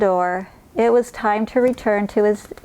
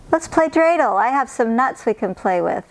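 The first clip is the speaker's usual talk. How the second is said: higher, cheerful grandmotherly voice; playful old woman; 3 semitones higher than usual. Acted. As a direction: invite a friend to play. Baba Brena invites a game.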